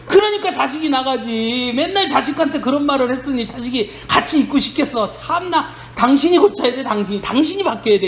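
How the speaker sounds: imitating a reproachful neighbour; mock retort. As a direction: tell the parent off, 그러니까 pushed up high. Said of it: "이런 말을 하는 것처럼".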